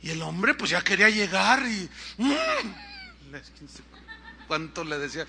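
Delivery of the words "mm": imitated straining grunt. Man hauled up by his teeth, imitated straining grunt. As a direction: grunt with mouth shut. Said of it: "se oían puros pujidos".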